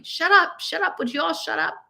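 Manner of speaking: yelling. A narrator's reading. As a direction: bark it across the ward at the noise. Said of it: "the other people in the ward were yelling".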